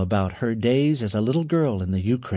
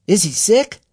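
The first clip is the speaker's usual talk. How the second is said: put-on girl's voice; 9 semitones higher, 5 dB louder than usual. A narrator's reading. Girl Noreen asks.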